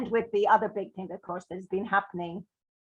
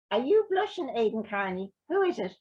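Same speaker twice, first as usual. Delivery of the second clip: teasing gran; 2 semitones higher than usual. Acted. Gran teases grandson.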